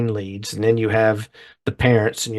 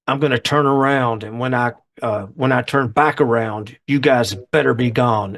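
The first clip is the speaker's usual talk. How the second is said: words squeezed through clenched teeth; through gritted teeth. Retold or imitated. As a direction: talk through tight teeth like a tough guy. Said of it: "he's kind of talking through his teeth like this".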